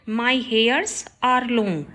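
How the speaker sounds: slow, careful read of the wrong sentence; slow teacher dictation. Shown as a demonstration. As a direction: spell it out word by word for the class. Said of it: "रॉन्ग है सेंटेंस".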